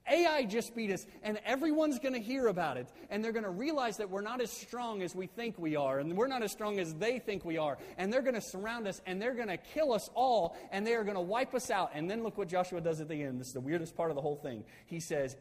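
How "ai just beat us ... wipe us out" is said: raised, mounting dismay; acted alarm. Joshua dreading the enemies' response, acted alarm. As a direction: plead in mock panic, pitch staying high. Acting out Joshua's panicked lament to God.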